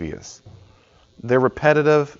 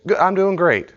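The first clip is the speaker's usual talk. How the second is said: high, louder eager reply; over-eager answer; 9 semitones higher, 5 dB louder than usual. Retold or imitated. Student answering an unasked question, high and eager. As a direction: blurt the answer to please. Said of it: "And I said".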